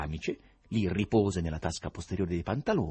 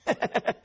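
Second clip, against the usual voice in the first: high, staccato mocking cackle; short acted sinister chuckle; sinister laugh; 3 dB louder than usual. A narrator's reading. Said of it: "in una risata sinistra". (risata sinistra)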